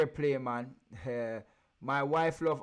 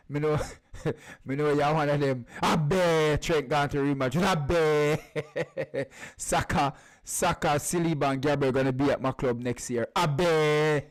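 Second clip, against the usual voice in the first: taunting shout; 9 dB louder than usual. Acted. Loud taunting of rival fans.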